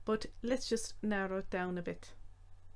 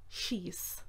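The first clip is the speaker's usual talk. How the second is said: whispered; 3 semitones lower, 8 dB quieter than usual. Shown as a demonstration. Teacher softly repeating a dog command. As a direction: whisper the she's.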